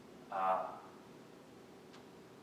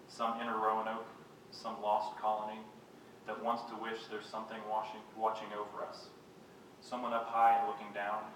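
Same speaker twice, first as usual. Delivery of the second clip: measured poetry-reading voice; poem reading. Acted. Poet reads to an audience about rain, measured recital. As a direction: read it as verse, pausing at line ends.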